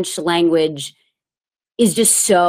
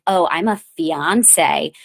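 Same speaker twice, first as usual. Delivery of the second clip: slow, mock self-important drawl; obnoxious; much slower than usual. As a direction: show off the word, slowly. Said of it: "it just felt so obnoxious".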